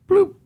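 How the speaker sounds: quick mock email bounce sound; imitated bloop. Podcaster imitating an email bouncing back, bloop. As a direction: pop out a little bloop.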